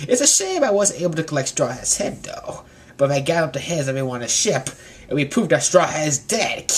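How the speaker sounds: scheming villain monologue; gloating Koribu. Retold or imitated. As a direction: muse with creepy relish. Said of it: "And Koribu's like".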